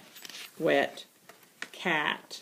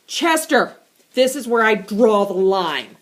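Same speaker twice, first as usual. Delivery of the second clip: louder, firm warning; stern scolding; 6 dB louder than usual. Acted. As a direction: put your foot down. Melanie confronts Chester.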